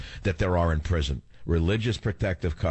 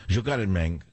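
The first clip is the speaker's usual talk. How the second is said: Pacino-style Spanish accent. Shown as a demonstration. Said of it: "That was the one".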